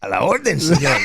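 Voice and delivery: put-on Mexican accent. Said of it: "you're doing a Mexican accent".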